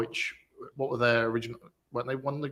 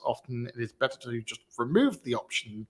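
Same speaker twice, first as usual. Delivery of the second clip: reading aloud. Real, not acted. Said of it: "me reading out the actual tweet".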